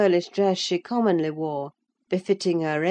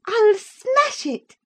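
put-on high, slow, spiteful young lady; childish spite; 7 dB louder, slower than usual. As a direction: stamp each word out like a sulking child. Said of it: "striking it with childish spite".

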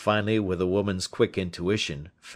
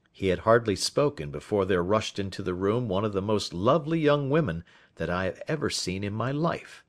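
ordinary delivery

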